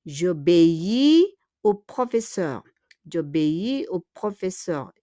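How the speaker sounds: "J'obéis" run together as one word, jo-bé-i; elided E. Shown as a demonstration. Teacher models the example sentence, E dropped by elision. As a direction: join je and obéis into "J'obéis". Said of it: "we remove le E because je et obéi".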